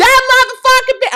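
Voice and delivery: screaming, very high, shrill and very loud. Speaker demonstrates how people scream and cuss to be heard: loud cussing. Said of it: "I know that was probably loud to some people".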